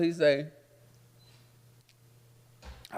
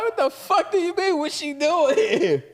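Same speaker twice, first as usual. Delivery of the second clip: high loud shout, slowing on the last line; outraged yell; 7 dB louder than usual. Retold or imitated. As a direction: throw it back at him, loud and shocked. Retorting to friend, outraged.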